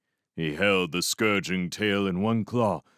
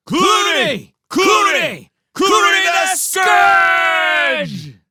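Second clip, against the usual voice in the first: far higher, very loud chanted reply; frenzied roar; 11 dB louder, much slower than usual. Acted. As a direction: roar back like a mob. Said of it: "they roared back their frenzied replies".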